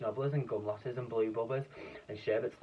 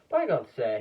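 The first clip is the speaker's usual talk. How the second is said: excited cry; 3 semitones higher, 9 dB louder than usual. A narrator's reading. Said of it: "he cried, waving his stick".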